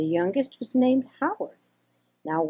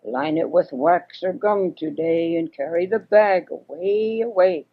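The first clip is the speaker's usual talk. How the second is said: hoarse croak; 3 dB louder than usual. Acted. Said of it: "croaked in a hoarse voice".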